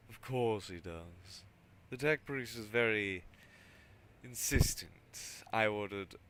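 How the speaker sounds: loud, weary governor voice; an overwhelmed governor pushing back; exasperated governor. Acted.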